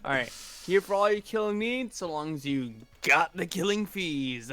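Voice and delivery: electronically altered voice; voice changer. Acted. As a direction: run it through a voice changer. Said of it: "to do the voice changer?".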